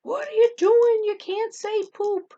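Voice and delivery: high, slow, incredulous mock scolding; reproving administrator. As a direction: scold her in drawn-out disbelief. Administrator reproving her, acted out.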